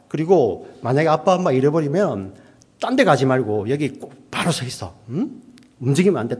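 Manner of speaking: 힘주어 다짐받는 부모 말투 흉내; 아이에게 단단히 일러두듯 강조해서; 부모의 당부. Retold or imitated. 부모가 아이에게 당부하는 인용. (신신당부하는 부모처럼)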